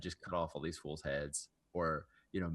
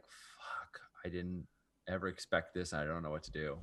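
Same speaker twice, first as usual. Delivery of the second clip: lost whisper; 2 semitones lower, 7 dB quieter than usual. Retold or imitated. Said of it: "realizes, like".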